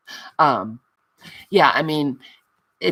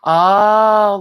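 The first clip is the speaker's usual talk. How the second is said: surprised oh; 6 semitones higher, 11 dB louder than usual. Real, not acted. Sudden realisation she missed someone.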